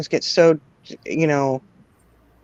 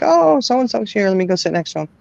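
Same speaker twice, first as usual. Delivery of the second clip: a hint of a child spotting a friend; imitating eager kids; 5 semitones higher than usual. Mother voicing kids at a memorial, light childish eagerness. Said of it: "They're like".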